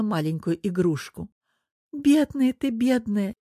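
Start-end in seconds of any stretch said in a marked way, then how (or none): 1.9-3.3 lamenting. Acted. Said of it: "неожиданно запричитала Анна".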